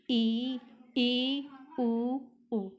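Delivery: ई and उ drawn out, mouth nearly closed; teacher showing the closed vowels ई and उ; vowel demo. Shown as a demonstration. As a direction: say ई, ई, उ, उ as slow isolated vowels. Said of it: "आप इसे बोलकर ज़रूर देखें कि हमारा मुंह कितना खुलता है".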